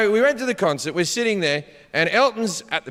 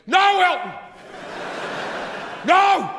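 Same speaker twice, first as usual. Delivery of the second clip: distraught yell; 11 semitones higher than usual. Retold or imitated. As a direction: cry out like a heartbroken young fan. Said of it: "the kid just lost his mind and went".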